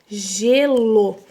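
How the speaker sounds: Gelo with the G held like J; clear demo word. Shown as a demonstration. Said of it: "O G tem som de J". (Gelo falado com clareza, G como J)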